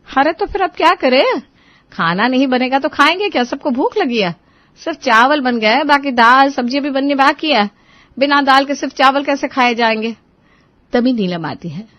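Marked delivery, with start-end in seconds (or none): 0.1-10.1 flustered worry. Acted. Cooking fails, family hungry.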